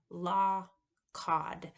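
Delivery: law then cod, vowels nearly alike; vowel comparison. Shown as a demonstration. Teacher showing similar vowels in law and cod. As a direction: model law and cod side by side. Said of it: "are very similar".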